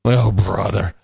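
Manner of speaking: a touch of groaning exasperation; understated mock groan of dismissal; imitated weary groan. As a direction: imitate scientists groaning at a name. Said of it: "They all, like, groan".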